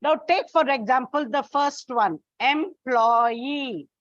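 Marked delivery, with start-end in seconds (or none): 2.4-3.9 employee with the final EE drawn out and stressed; em-ploy-EE, lean on the end; stress on last syllable. Shown as a demonstration. Teacher showing children the stress lands on EE. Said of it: "On the last syllable".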